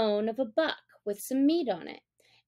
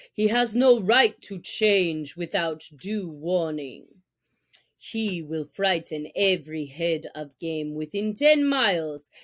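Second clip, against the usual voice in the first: angry; 5 semitones lower than usual. Acted. Father Wolf voiced low.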